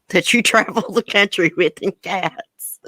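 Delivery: amused, words breaking into laughter; laughing. Real, not acted. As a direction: laugh your way to the end of the sentence. Amused remark to a chat viewer.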